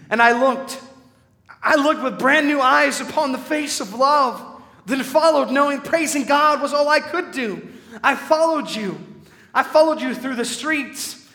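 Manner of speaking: impassioned spoken-word reading in character; rising, fervent poetic delivery; dramatic poem recitation. Acted. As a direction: perform the poem as the witness living it.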